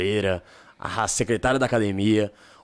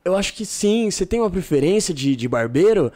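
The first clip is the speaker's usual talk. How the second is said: put-on confused barbershop girl; 8 semitones higher, 4 dB louder than usual. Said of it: "ficou meio confusa".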